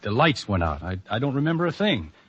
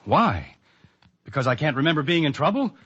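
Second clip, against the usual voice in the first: agitated protest; 5 semitones higher than usual. Acted. Patient argues against his detention.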